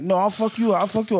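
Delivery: lightly acted tit-for-tat insults; argumentative back-and-forth. Imitating people going back and forth, mildly combative. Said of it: "debating and being argumentative".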